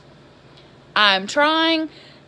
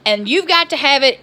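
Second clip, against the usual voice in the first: retold livid rant; 3 dB louder than usual. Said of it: "I was livid".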